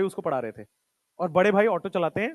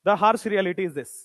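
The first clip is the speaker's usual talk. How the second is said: slow, weighty emphasis; 2 semitones lower, much slower than usual. Real, not acted. Stressing a hard truth to students.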